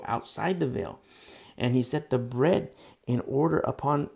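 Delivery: steady, projected Bible reading; emphatic read-aloud of scripture. Real, not acted. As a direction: read the verse out to the congregation. Reads scripture aloud to congregation.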